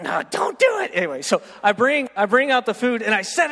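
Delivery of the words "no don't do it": high, pleading "don't do it"; alarmed plea. Retold or imitated. Manager pleading with the server, high and alarmed. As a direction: beg him to stop, voice jumping up. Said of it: "she's like".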